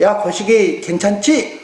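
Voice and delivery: slow, easy Jeolla drawl on 거시기; a lightly put-on Jeolla dialect, taking time; 전라도 사투리로 느긋하게; Jeolla dialect speaker. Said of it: "전라도 사람들이 가서 그러지".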